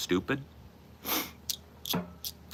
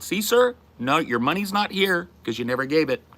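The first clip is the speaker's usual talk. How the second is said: retold pointed reply; 8 semitones higher than usual. Retold reply to screaming customer.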